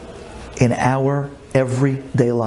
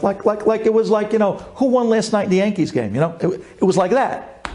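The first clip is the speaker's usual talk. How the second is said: indignant outburst; 6 semitones higher than usual. Retold or imitated. Son confronting heartless doctor.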